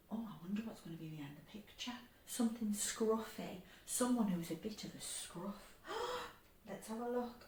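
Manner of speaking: very soft, wondering aloud; hushed suspense. Pretend. Suspense before revealing picture.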